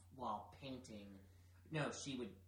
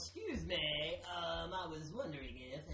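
timid; 3 semitones higher than usual. Shown as a demonstration. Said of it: "You lack confidence".

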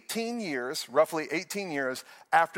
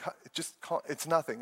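sleepy mumble; 6 dB quieter than usual. Retold or imitated. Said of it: "And I'm like".

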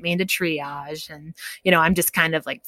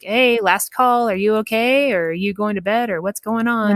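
retold text in a higher, chirpy lilt; casual check-in; 4 semitones higher than usual. Stepmother texting to check on her, higher-voiced check-in. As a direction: lightly imitate someone checking in. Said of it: "she texted me and kinda ... was like".

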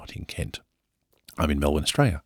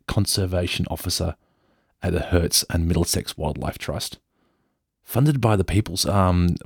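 put-on posh English accent. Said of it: "I'm just gonna just go full Downton Abbey".

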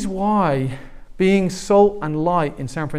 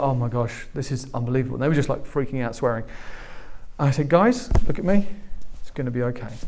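calm reassurance; faster than usual. Retold or imitated. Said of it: "I just felt myself calmly go over".

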